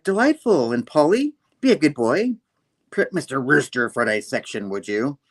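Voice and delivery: high, loud, lilting mistress; imitated grand madam. Madam instructing her servant Polly, high and lilting. Voicing Madam giving orders.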